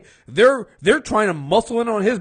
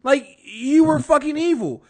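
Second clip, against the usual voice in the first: heated retort; 5 semitones higher, 5 dB louder than usual. Retold or imitated. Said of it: "I'm like".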